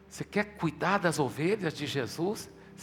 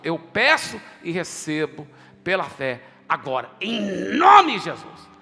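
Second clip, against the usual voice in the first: proclaiming in faith; 6 dB louder than usual. Retold or imitated. Pastor retells his prayer of faith.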